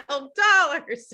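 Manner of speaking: high, loud, drawn-out mock outrage; apoplectic. Imitating colleague scolding an ill-prepared runner, apoplectic. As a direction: stretch it out in exasperated disbelief. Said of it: "he's, like, apoplectic".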